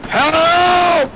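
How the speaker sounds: hammed-up wounded cry; mock call for help. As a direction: yell for help like a dying soldier. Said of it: "I just joined in with him".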